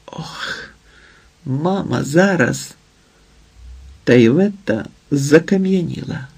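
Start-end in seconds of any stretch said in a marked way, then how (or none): 0.1-2.7 breathless frightened gasp, then a hushed cry. A narrator's reading. Daughter startled as her mother is kissed, frightened. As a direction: caught off guard, voice dropping in alarm. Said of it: "Ліда перелякалася".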